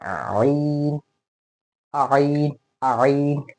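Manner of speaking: an extra आ before the throaty आइन; wrong two-part onset. Shown as a demonstration. Teacher showing a common mistake, आइन with an added आ. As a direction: slide into आइन with a stray leading vowel. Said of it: "ये नहीं करना है।".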